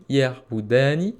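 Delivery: "yerboudani" said slowly, syllable by syllable; slow word demo. Shown as a demonstration. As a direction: spell out "yerboudani" slowly for learners. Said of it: "Ya ou you plus ani égale eux deux".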